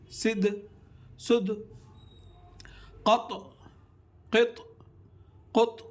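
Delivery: each syllable ending in a bouncing echo on the stopped letter; qalqala echo. Shown as a demonstration. Teacher demonstrating the qalqala bounce to students. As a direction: pop the final letter so it rebounds. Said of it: "double آواز نکالنا".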